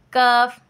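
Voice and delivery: thin, light k in "काफ", clearly sounded; model letter kaf. Shown as a demonstration. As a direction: sound out "काफ" with an unrounded vowel. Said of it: "और वो क्या है?".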